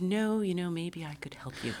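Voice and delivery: soft imitation of a tactful helper; kindly, imitated. Costumer tactfully offers help with a dress, imitated kindly and softly. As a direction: let it fade very quietly, gently retelling her. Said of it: "she very kindly said".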